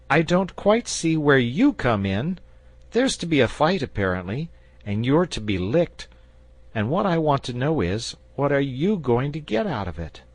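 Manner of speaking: put-on boy challenging the dragon for his friend; jealous boy. A narrator's reading. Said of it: "a little jealous on behalf of his friend".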